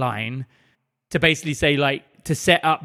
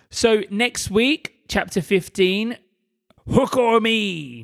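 slow, high generic pirate; 5 semitones higher, slower than usual. Shown as a demonstration. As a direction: drag out the title like a pirate. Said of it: "I just did a random generic pirate voice".

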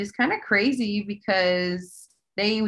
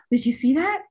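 retold alarm; 6 semitones higher, 4 dB louder than usual. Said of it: "we both said".

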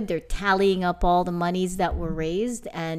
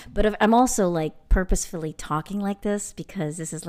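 receptionist voice. Real, not acted. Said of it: "my receptionist voice".

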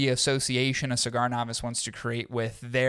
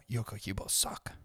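put-on soft, accidental Asian accent; badly attempted Cuban accent sliding into Asian; throwaway quiet line in a muddled Asian accent; botched Asian accent; 4 semitones lower, 12 dB quieter than usual. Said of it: "why I did that in an Asian accent".

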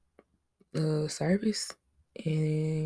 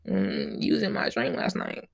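deep, breathy lover's voice; sultry DM come-on dropped way down; seductive pickup line. Pretend. Mock slide into the DMs.

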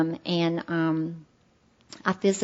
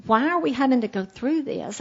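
higher, mock-angry plea to God; retold angry prayer; 5 semitones higher than usual. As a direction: replay the outburst, raised but not full force. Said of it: "I was yelling and screaming at God".

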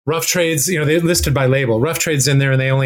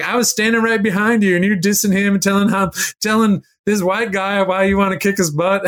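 higher-pitched mock accusation; retold indignant accusation; 6 semitones higher than usual. Angry woman confronts a singer over his joke, mock indignation.

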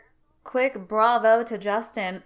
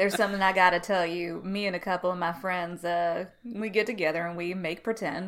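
Duck voice; 4 semitones lower than usual. Retold or imitated. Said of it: "That was a very good Duck impression".

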